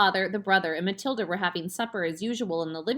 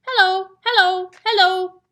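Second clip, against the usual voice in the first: high, loud squawking parrot; 12 semitones higher, 12 dB louder than usual. A narrator's reading. Talking parrot speaks.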